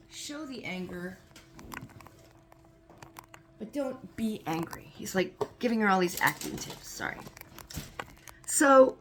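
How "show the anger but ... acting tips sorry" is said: dropping to a near whisper mid-story; hushed aside. Real, not acted. Narrator to listener, voice dropped to a whisper. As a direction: whispers on while busy with the bandages. Aside while putting on Band-Aids.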